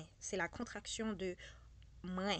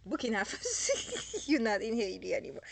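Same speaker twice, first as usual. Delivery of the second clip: laughing tease; 5 dB louder than usual. Real, not acted. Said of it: "teasing francophone listener".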